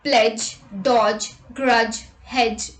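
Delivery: no separate D before the J in "grudge"; silent D in DG. Shown as a demonstration. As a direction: demo of DG endings. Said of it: "D is also not pronounced in the combination D G".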